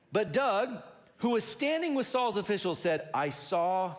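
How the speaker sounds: dramatic reveal. A narrator's reading. Dramatic reading of Doeg stepping up.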